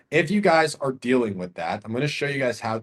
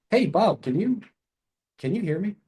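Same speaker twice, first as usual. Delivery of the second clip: higher, easy, questioning; calm curious tone; 7 semitones higher than usual. Shown as a demonstration. Caller checking Bob can hear, calm and curious. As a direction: sound relaxed and curious, not salesy. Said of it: "So I need to use a calm, relaxed tonality".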